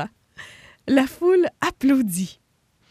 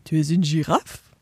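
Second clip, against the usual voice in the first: surprised; 7 semitones lower, 3 dB louder than usual. Acted. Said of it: "s'étonna Noyau".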